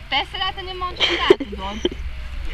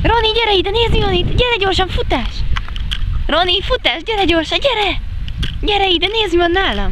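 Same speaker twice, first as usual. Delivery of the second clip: excited calling; 3 semitones higher than usual. Real, not acted. Calling dog to come.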